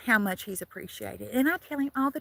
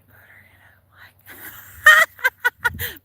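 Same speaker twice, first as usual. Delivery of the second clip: squealing laugh; 12 semitones higher, 8 dB louder, much slower than usual. Real, not acted. Squeals at her own joke.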